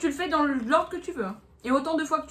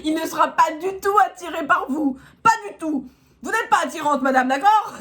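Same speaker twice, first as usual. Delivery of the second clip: mocking reading; 4 semitones higher, 6 dB louder than usual. Mock-reading the card harshly.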